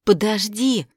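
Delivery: calling out after him, out of breath; breathless shout. Acted. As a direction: shout it while running. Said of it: "запыхавшись, крикнула я".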